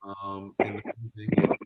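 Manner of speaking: choppy cutting-out audio; breaking up. Real, not acted. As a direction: voice dropping out on a bad Zoom line. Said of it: "Joe, you're breaking up".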